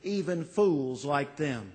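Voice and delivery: impassioned imploring prayer; pleading prayer. Retold or imitated. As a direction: beg on behalf of others. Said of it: "A pleading prayer".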